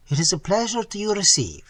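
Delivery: put-on high, bright French-accented landlady crying out in welcome. A narrator's reading. Landlady greets the new American lodger, high French-accented gush. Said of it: "she cried".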